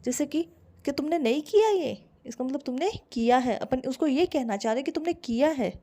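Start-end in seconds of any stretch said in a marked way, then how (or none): 0.8-2.1 higher, accusing question. Shown as a demonstration. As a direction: say it to accuse, not to ask. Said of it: "तो इसका tone change करो आप".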